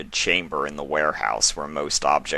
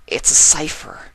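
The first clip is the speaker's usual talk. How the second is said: insistent filly; 10 semitones higher, 6 dB louder than usual. A narrator's reading.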